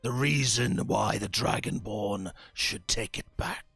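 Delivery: a hint of a cold leader who holds all the cards; lightly voiced warlord bargaining; menacing warlord.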